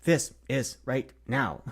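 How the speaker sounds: every word its own sentence, slow; Shatner style. Retold or imitated. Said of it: "the William Shatner approach".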